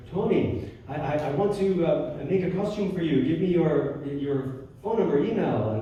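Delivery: light imitation of a Russian accent. Retelling a costume maker's eager offer, in a light Russian accent. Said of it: "in a strong Russian accent".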